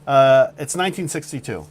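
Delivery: suspenseful campfire-story voice; dramatic storytelling. Acted. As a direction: paint a tense scene like a thriller. Dramatic story narration of roast.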